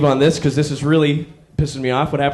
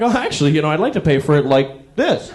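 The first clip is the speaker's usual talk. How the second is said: mock sheepish. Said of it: "I'm like".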